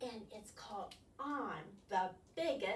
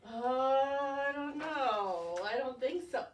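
unsure squid; 5 dB louder, slower than usual. Acted. Squid unsure inside whale.

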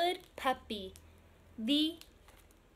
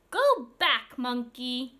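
scolding; 6 dB louder, slower than usual. Acted. Scolding naughty monkey.

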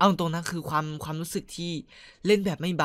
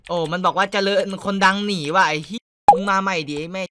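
hoarse ranting; 2 semitones higher than usual. Real, not acted. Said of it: "กูพูดจนเสียงจะแตกแล้วเนี่ย".

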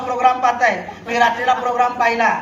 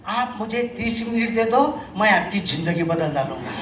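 salesman's catchphrase; 5 semitones lower, 5 dB quieter than usual. Retold or imitated. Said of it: "तो एक dialogue मारायचा".

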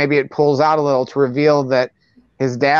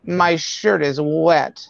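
slow catchphrase; 2 semitones higher, much slower than usual. Acted. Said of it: "his other catchphrase should be".

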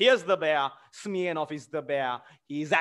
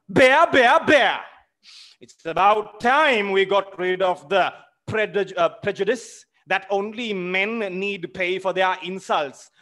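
shouted insult; 3 semitones higher, 6 dB louder than usual. Acted. The widow yelling at Smirnov, loud and furious. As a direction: fling the word bear at him.

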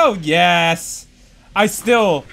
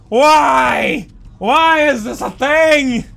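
higher, louder cry of disbelief; exasperated shout; 4 semitones higher, 3 dB louder, slower than usual. Real, not acted. Gamer shouting at the game in disbelief. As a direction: yell it at the screen in disbelief.

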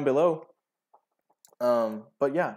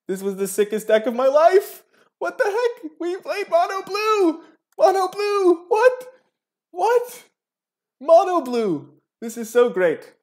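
high squealing disbelief and joy; shrieking jackpot winner; 6 dB louder, slower than usual. Real, not acted. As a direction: shriek it like you hit the jackpot. Celebrating the tournament win.

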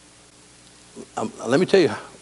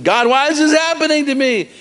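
pleading Joshua; 11 semitones higher than usual. Retold or imitated. Joshua crying out to God.

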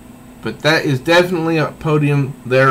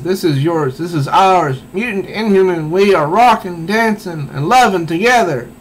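higher, rising rally cry to the crowd; rally the crowd, higher and brighter; singer's speech; 5 semitones higher, 3 dB louder than usual. Retold or imitated. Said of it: "She says".

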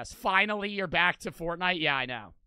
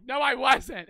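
high, loud mock protest from an upset kid; hammed-up kid insisting he's innocent; mock defensive kid; 7 semitones higher, 8 dB louder, slower than usual. Streamer imitating the Among Us kid denying it, mock high whine. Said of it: "And he was like".

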